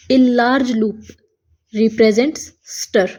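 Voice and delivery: very slow, word by word reading; slow dictation. Shown as a demonstration. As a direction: dictate each word slowly. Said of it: "shutter वाले जो loop है". (धीमा श्रुतलेख)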